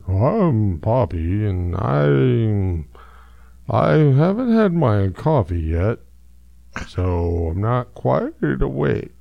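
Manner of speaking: put-on slow, drowsy girl dog before coffee; sleepy Poppy voice. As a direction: drag it out like you're barely awake. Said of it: "Poppy's one voice is".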